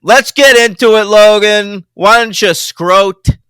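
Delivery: loud, hammed-up Irish brogue; overdone Irish lilt, playing it up; bad Irish accent. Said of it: "I'm speaking in a bad Irish accent".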